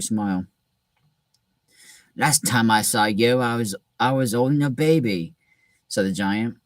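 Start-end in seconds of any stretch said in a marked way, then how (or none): 2.2-5.3 a lightly voiced Hagrid drifting toward an Australian accent; Australian-ish Hagrid accent. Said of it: "Is that an Australian accent?".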